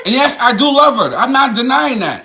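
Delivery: high, laughing through the words; bitter laugh. Real, not acted.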